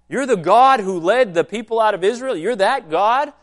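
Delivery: high-pitched indignant question; incredulous. Acted. Upset listeners questioning Jesus' claim to be God, incredulous. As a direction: challenge it in mock disbelief.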